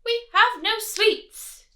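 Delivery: high, slow little ants; ants' voice. Acted. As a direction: squeak it out timidly like tiny ants. Ants answer the rat.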